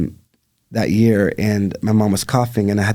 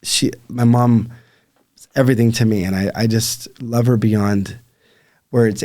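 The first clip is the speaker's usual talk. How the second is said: getting emotional. Real, not acted. Talking about her mother to the host, emotional. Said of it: "I'm even getting emotional thinking about it".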